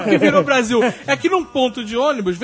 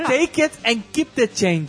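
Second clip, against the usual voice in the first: action hero; slower than usual. Retold or imitated. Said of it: "O que que o Jack Bauer faria".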